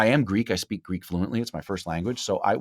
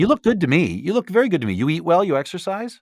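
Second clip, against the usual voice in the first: playful mock flattery; 11 semitones higher, 10 dB louder than usual. Real, not acted.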